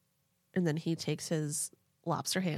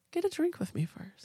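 creepy ex; 9 semitones higher than usual. Retold or imitated. Creepy ex's condition, retold.

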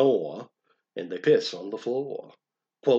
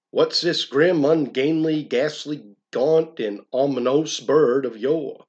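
dramatic declaiming; 4 semitones higher, 5 dB louder than usual. Acted. Dramatic poem reading, raised.

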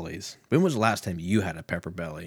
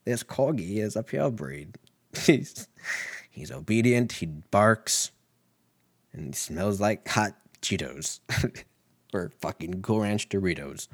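forties guy voice. Retold or imitated. Imagining a breeder showing off a dog, 1940s presenter voice. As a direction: play a 1940s newsreel presenter. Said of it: "my voices are always like a guy from the forties".

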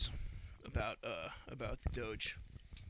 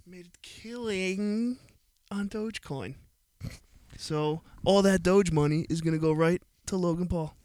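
hyped boast; 5 semitones higher, 10 dB louder than usual. Real, not acted. Hyped boast about Doge winnings.

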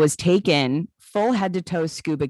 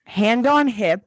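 loud, higher put-on British accent; 5 semitones higher, 9 dB louder than usual. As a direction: proclaim it in a hammed-up British voice. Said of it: "Should we do this one in a British accent?".

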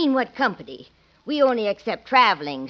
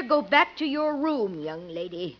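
angry scolding; 3 semitones higher than usual. Acted. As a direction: scold her out of the room. Aunt catches niece in room.

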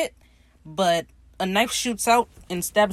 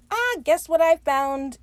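excited mock announcement; 9 semitones higher, 5 dB louder, slower than usual. Steed excited about treasure map.

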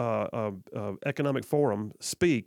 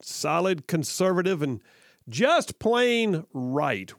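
echoing the announcer; 3 semitones higher, much slower than usual. Retold or imitated. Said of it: "like the dude just said".

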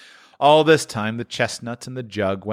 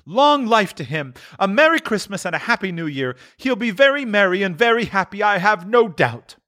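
sarcastic toast; 11 semitones higher than usual. A narrator's reading. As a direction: wish Scrooge merry with scorn. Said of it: "said Missus Cratchit".

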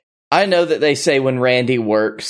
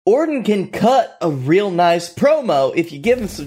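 frustrated shout; 5 semitones higher than usual. Real, not acted. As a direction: yell it out in frustration. Frustrated fan outburst.

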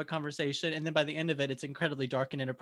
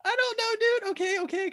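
high, loud flustered protest; 7 dB louder than usual. Real, not acted. Caught out by cohost, flustered high protest. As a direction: brush it off, embarrassed and squeaky. Flustered after being teased.

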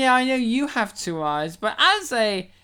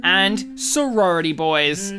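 tribute announcer; 4 dB louder than usual. Acted. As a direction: announce names like a tribute reel. In memoriam style tribute reading.

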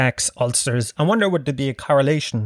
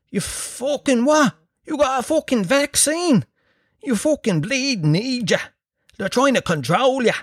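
mock anti-vaxxer rant; 10 semitones higher than usual. The speaker mocking anti-vax listeners, a high hammed-up rant. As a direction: ham up a ranting conspiracy nut. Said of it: "some of you are probably going".

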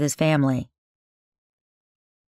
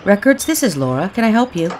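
prison records clerk; 5 semitones higher than usual. Acted. New staffer answers the phone.

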